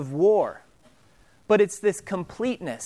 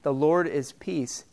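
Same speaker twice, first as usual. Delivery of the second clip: slow, reverent; 4 semitones lower, 3 dB quieter than usual. Shown as a demonstration. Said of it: "recorded in the Bible".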